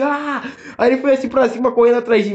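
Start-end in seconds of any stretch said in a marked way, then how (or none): 0.0-0.4 half-hearted mock yell; imitating a big scream. Describing the kid breaking free, a mild mock yell. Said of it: "deu um gritão assim".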